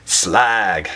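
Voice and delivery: drawn-out mock Cockney Slag; faux Cockney. Beer reviewer jokingly naming the beer, mock Cockney. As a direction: say Slag in a slow put-on Cockney. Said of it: "faux Cockney accent there".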